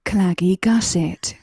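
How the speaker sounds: sultry narrator. Pretend. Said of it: "say claggy gusset in your sexy voice".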